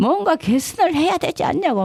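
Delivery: high-pitched, worked-up, agitated delivery. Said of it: "막 이러면서 막 흥분해서".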